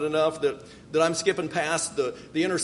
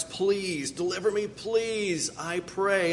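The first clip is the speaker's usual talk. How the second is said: pleading prayer; 2 semitones higher, 3 dB quieter, slower than usual. Shown as a demonstration. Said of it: "could have been translated perhaps".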